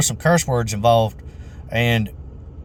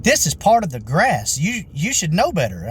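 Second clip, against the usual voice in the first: mock yelling; 4 semitones higher than usual. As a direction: imitate an indignant customer telling someone off. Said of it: "she literally yelled at me".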